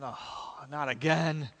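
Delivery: very soft, almost whispered groan; mock dread, nearly whispered; muttered dread. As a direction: breathe it out, dreading the prophet. Ahab's dread seeing Elijah.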